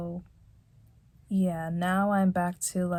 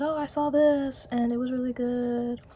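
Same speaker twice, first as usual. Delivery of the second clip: higher, bright friendly quote; friend's cheerful voice; 6 semitones higher than usual. Retold or imitated. Someone talking to her about something good, higher and cheerful. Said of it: "and they said".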